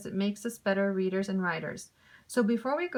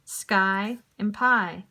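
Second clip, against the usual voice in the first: slow rhyme demo; 3 dB louder, much slower than usual. Shown as a demonstration. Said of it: "Which two words rhyme?".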